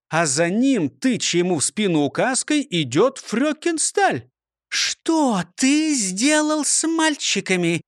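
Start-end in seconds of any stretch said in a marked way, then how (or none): 4.7-7.8 higher, slow, stern teacher voice. A narrator's reading. The teacher confronts the prosecutor about her boys, stern. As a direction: demand an answer like a strict schoolmistress. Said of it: "строго спросила она".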